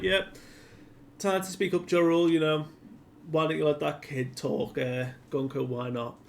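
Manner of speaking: lightly voiced cocky villain goading them; high mocking sneer; mock taunt. Villain taunting the captive heroes.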